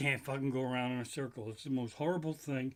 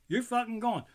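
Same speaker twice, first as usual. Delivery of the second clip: the punchline shouted higher; loud; 8 semitones higher, 4 dB louder than usual. Shown as a demonstration. Comic demoing the coaster line, normally said loud. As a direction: yell you're fucking gone. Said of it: "I do a more of a".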